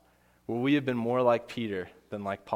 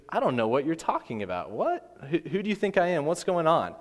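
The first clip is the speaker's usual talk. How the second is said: lightly acted rattled tough guy; mock flustered denial; 4 semitones higher than usual. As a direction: play at being caught out, rising to a high "What?". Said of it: "big tough Peter isn't so tough anymore".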